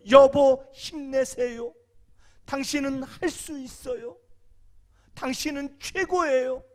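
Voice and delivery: slow, drawn-out words of encouragement; encouraging wife. Pretend. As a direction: cheer him on gently and slowly. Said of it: "아내의 역할이 그거예요".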